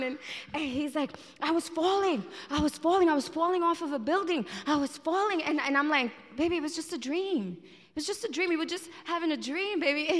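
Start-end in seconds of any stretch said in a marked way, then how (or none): 1.4-5.4 imitated panicked husband. Acting husband just woken from nightmare. 6.4-10.1 soothing wife. Retold or imitated. Acted wife soothing husband after nightmare.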